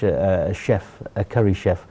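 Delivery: ordinary talk, nothing marked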